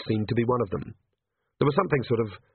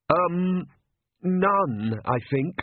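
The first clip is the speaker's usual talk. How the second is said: high, hesitant nervous priest voice; timid priest; 7 semitones higher, much slower than usual. Acted. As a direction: stammer it out like a frightened cleric.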